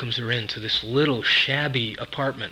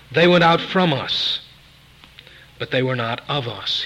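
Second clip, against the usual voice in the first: firm, measured reading from the pulpit; scripture reading; 5 dB louder than usual. Real, not acted. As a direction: read the verse aloud with emphatic phrasing. Reads scripture aloud.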